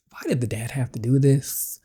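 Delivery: whispered question. Real, not acted. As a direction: whisper it to yourself.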